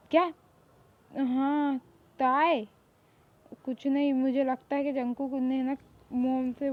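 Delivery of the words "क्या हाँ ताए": loud call across the room. Acted. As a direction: call her name loudly to get her attention. Calling out to her. (ज़ोर से पुकारना)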